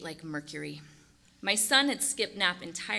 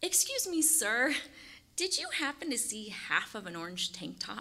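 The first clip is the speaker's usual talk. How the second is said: put-on wavering, strained, polite voice forcing calm; 3 semitones higher, 5 dB quieter than usual. Retelling asking a stranger about a lost shirt: imitating own shaky voice. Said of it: "my red eyes and shaky voice betrayed me".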